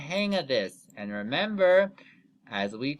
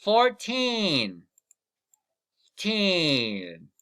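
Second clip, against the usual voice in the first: counting aloud; 3 semitones higher, 4 dB louder, much slower than usual. Shown as a demonstration. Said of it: "Count with me".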